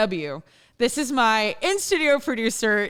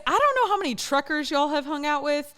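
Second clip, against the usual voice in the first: slightly raised Southern twang; little twang; 5 semitones higher than usual. Shown as a demonstration. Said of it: "doing a little twang right there".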